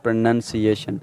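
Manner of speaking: "pronunciation" with NUN, not noun; careful "pronunciation", short second vowel; correct noun form. Shown as a demonstration. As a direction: model "pronunciation" slowly as pro-NUN-si-ation. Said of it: "as a noun if you say this word".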